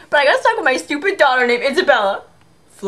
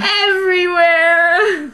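eerie ghostly drawl; much slower than usual. Acted.

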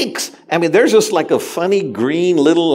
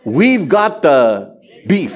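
slow, mock ad-announcer voice; hammed-up commercial read; Arby's ad line; 2 semitones lower, slower than usual. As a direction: imitate a TV commercial tagline. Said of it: "Is that an Arby's commercial?".

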